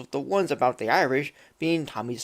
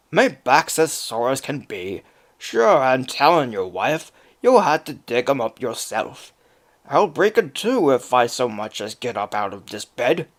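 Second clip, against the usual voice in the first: louder, complaining Irish brogue; whiny Irish accent; 4 dB louder than usual. Acted. Lazy Jamie refusing his wife in an Irish accent. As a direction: moan about your back in an Irish lilt. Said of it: "Jamie would whine".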